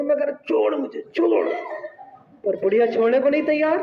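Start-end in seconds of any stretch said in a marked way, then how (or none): 0.4-1.5 high, strained plea to be let go; retold panicked plea. Retelling how he begged the choking old woman. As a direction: beg the ghost to let go, half acted.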